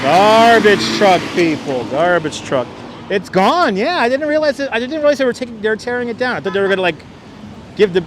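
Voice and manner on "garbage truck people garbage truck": calling out. Real, not acted. Alerting viewers to passing truck.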